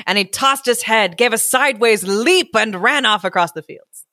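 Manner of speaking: measured, expressive storyteller; story narration. A narrator's reading. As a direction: read it aloud like a picture book. Reads story aloud.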